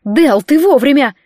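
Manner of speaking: urgent, anxious call; anxious outburst. Acted. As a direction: blurt it out in worry. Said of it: "вырывалась я с тревогой".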